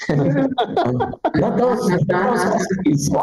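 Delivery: high, stretched-out protester plea; mock protest cry. Protesters fighting agents over dogs, mock outcry. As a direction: plead in a high put-on cry.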